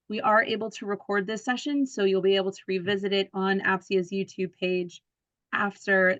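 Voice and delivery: rough, gravelly speaking voice. Real, not acted. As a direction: talk through a gravelly, scratchy throat. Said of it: "this crazy gravelly voice that I have".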